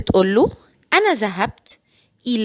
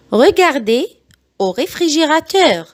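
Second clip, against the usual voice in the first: very slow, each syllable spelled out; slow it right down so parents can copy; slow model sentence for learners; slow teaching read; 4 semitones higher, much slower than usual. Shown as a demonstration. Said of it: "بعيد الجمل بالراحة جدًا".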